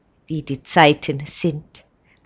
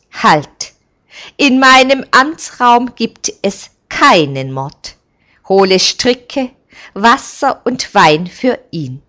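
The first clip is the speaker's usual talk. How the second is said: commanding shout; 6 semitones higher, 8 dB louder than usual. A narrator's reading. Elder stops a murder.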